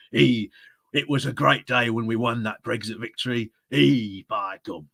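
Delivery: muddled attempt at a Cockney accent; lightly put-on Cockney, hammy and uncertain; Mark Francois. Shown as a demonstration. Streamer trying a funny reading voice for viewers, rough Cockney accent. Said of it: "a bit of a Cockney accent".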